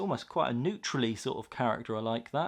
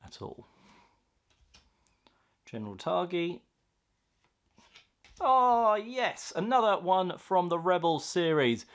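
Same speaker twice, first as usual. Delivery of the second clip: hushed then yelling excitement; 5 semitones higher, 3 dB louder than usual. Real, not acted. Quiet musing then excited pull.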